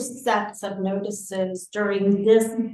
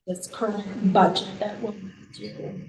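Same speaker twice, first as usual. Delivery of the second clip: underwater. Real, not acted. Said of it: "it sounds like she's underwater".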